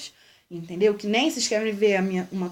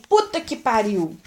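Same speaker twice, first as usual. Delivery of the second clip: a crisp, mildly louder curse, demonstrated; curse as typically said; 4 dB louder than usual. Shown as a demonstration. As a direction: show how a grown-up blurts it out. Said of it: "Que nem".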